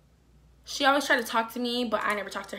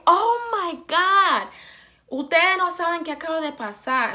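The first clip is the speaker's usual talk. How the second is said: retold excitement; 6 semitones higher, 3 dB louder than usual. Mom rushing in to tell the family, excited. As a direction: burst in breathless with gossip.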